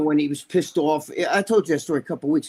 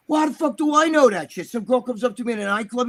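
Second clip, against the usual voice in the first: higher-pitched retold protest; indignant self-defense; 5 semitones higher than usual. Rick defending himself to Ray, retold indignant protest. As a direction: plead ignorance, mock exasperated.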